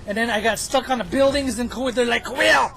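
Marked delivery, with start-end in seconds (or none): 2.3-2.7 teammate yelling. Retold or imitated. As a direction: shout it at a teammate.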